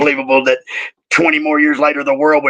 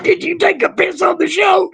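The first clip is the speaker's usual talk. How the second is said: mock yell. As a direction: yell it back like a hammed-up accusation. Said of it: "He said".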